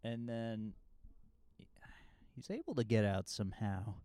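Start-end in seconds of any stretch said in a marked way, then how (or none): 2.3-4.0 fast whisper. Real, not acted. Retold escape.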